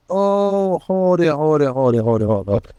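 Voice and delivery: a ship's radioman frantically waving off the pilot; urgent stop. Retold or imitated. Ship radioman urgently stopping pilot.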